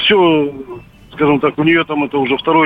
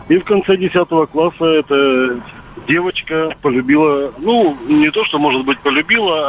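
over a landline phone. Real, not acted. Caller on radio phone line.

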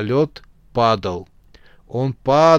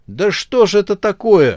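exasperated angry outburst, louder; 7 semitones higher, 6 dB louder than usual. Acted. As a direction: snap it out in frustration. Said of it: "разозлился Ляма".

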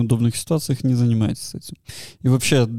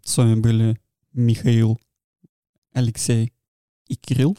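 languid voice. Acted. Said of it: "таким томным голосом это делаешь".

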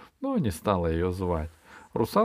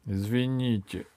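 subdued, understated apology; mildly sheepish apology; guilty voice. Acted. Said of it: "сказал дракон виноватым голосом". (виноватым голосом)

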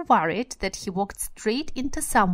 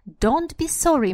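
a hint of the squeaky old man; 7 semitones higher, 5 dB louder than usual. Shown as a demonstration. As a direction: lift the pitch a little, squeaky and glad. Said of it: "in a squeaky voice".

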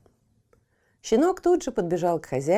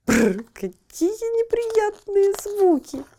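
disgusted; 10 semitones higher, 4 dB louder, slower than usual. Acted. Cat disgusted by barking.

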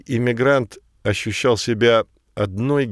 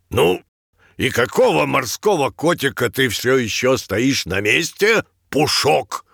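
roaring tyrant king; 3 semitones higher than usual. Acted. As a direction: yell at the newcomer. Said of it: "заорал царь".

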